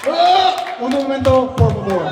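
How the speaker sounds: hammed-up moaning Spanish plea; mock orgasm voice. Comic imitating Bridget mid-orgasm, hammed-up moan. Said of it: "Bridget's sex sound noise".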